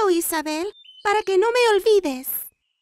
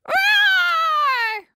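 childish pretend dragon roar; huge fiery dragon roar; 4 semitones higher, much slower than usual. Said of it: "y entonces el dragón rugió".

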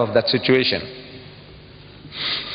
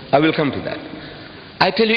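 ordinary talk, nothing marked

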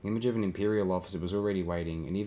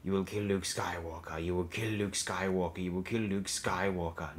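commanding inner voice. A narrator's reading. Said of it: "the voice continued unabated".

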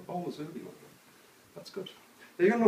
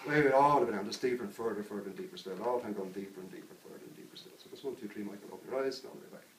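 soft, low hypnotist murmur; hushed, descending trance patter; hypnotic deepening; 4 semitones lower, 4 dB quieter than usual. Acted. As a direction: talk the subject quietly deeper, sinking in pitch.

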